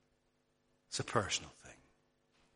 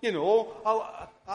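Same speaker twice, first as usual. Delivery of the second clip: mock excuse; 5 semitones higher, 3 dB louder than usual. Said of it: "tempted to say".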